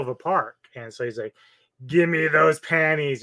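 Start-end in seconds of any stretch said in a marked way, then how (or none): 1.9-3.2 mock British accent, higher and louder; drawn-out demand in a put-on British accent. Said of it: "in his British accent".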